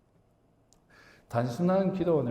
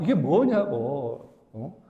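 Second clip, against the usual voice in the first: acted-out complaint; 2 semitones higher, 3 dB louder than usual. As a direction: act out an exasperated grumble at God. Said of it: "불평을 막 합니다". (하나님께 따지듯 불평하는 흉내)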